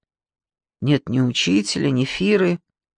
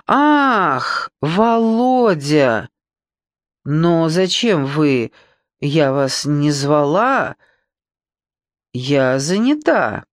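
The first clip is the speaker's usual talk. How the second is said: flustered; much slower than usual. Acted. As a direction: caught off guard and flustered. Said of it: "неузнаваемый, растерянный".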